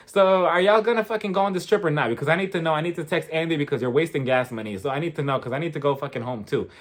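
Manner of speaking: lightly mimicked impatient attitude; a touch of fed-up sass, imitating a producer; pissy producer. Recapper imitating a producer hurrying the cast, mildly pissy. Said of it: "She came in with an attitude".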